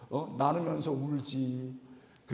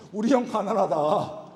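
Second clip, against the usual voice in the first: the phrase called out louder and slower; 우리 형 가난하다 said loud and drawn out; 2 semitones higher, 7 dB louder, slower than usual. Shown as a demonstration. Pastor leads the congregation in repeating it, loud. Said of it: "크게 안 해요?".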